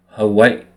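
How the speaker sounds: "Hawaii" with the first I stopped short, then a separate "ee"; glottal stop. Shown as a demonstration. Speaker teaching the okina in Hawaii, glottal stop between the I's. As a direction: break "Hawaii" before the last I, both I's sounded. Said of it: "bring the first I to a stop".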